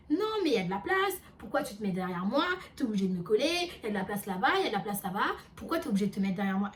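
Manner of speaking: rapid-fire imitation of an irate passenger; retold indignant rant. Train passenger tells her off for standing close, indignant.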